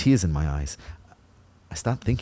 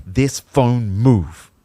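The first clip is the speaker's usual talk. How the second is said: straining; 3 semitones higher, 6 dB louder, much slower than usual. Acted. Kyle straining to move phone.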